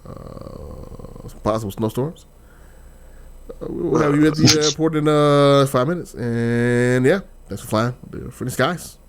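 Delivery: pilot on the intercom; airline captain. Pretend. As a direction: announce it like a pilot over the PA. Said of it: "captain speaking".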